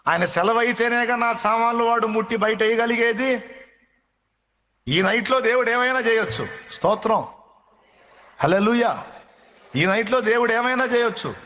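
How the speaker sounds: high-pitched fervent preaching. Acted. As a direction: preach it up high with full conviction.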